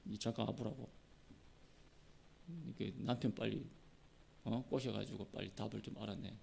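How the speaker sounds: low, hushed intimidation; acted-out threat, kept low and soft; threatening. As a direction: quietly lean on someone with menace. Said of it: "삼손의 아내를 막 협박합니다".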